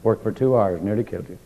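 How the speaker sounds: mock-tender wife coaxing her tired husband; lightly voiced soothing wife. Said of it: "she strokes your back of your head and says".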